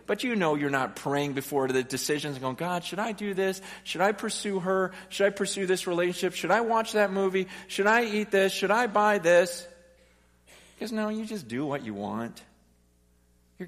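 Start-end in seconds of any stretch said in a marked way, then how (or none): 2.6-9.7 high, building string of questions; earnest questioning prayer. Acted. Preacher voicing a prayer before decisions, earnest high questioning. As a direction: press God with question after question.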